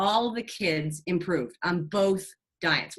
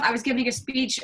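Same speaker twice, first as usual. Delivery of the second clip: ordinary talk, nothing marked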